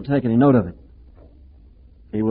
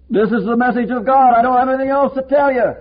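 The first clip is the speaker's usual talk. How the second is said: higher, louder, firm pulpit voice; preacher's declaration; 8 semitones higher, 3 dB louder than usual. Retold or imitated. Preacher voices a preacher declaring God's message, higher and louder. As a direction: proclaim it as final. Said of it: "the preacher makes it as clear".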